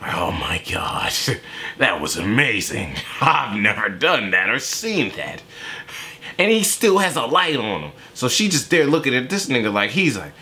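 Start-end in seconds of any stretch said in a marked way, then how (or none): 0.0-5.4 awed whisper. Retold or imitated. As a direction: whisper it like she can't believe what she just saw. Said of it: "She there just".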